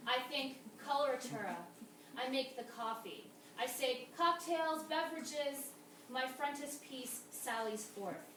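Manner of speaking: measured poem recital with falling line endings; deliberate spoken-verse cadence; poetry reading. Acted. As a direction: read it as a poem, each line set apart by pauses.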